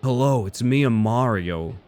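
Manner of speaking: lightly voiced plain Mario like Chris Pratt; deadpan Mario, hardly any accent. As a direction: say it flatly, barely a Mario voice. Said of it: "This is my voice".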